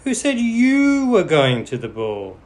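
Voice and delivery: loud, high scornful scolding; scolding stepmother. A narrator's reading. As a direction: put her in her place.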